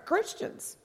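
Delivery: whispered, high and soft; breathy whisper. Real, not acted. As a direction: drop to a stunned whisper. Shocked aside.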